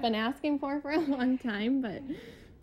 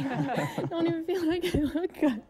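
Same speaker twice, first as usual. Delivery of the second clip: crying laugh. Real, not acted.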